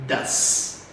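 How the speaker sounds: "Does" said slowly on its own, low; modelled pronunciation. Shown as a demonstration. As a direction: model "Does" alone for repeating. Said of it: "Let's repeat". ("Does" pronunciado devagar para repetir)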